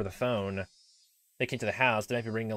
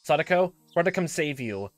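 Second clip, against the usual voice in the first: put-on raised, urgent young voice; earnest boy rescuer; 6 semitones higher, 4 dB louder than usual. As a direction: urge her to accept help. Voices Keiichi on the phone.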